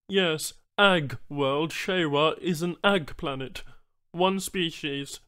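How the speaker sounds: high, slow alien voice; patient alien explaining slowly; alien Banu trader. Acted.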